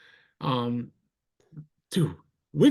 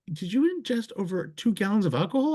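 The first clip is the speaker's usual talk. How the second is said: imitating cop; 6 semitones higher than usual. Cop voice, retold.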